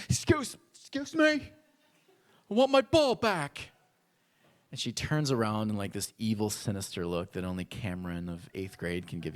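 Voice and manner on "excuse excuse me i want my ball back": put-on timid little boy. Little boy confronting the bully.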